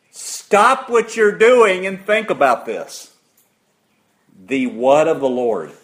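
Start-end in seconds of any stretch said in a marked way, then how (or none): 0.1-3.1 raised, slow, high-pitched command; commanding quote. Retold or imitated. Preacher quoting God to the congregation, loud command. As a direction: call it out slowly, like an order.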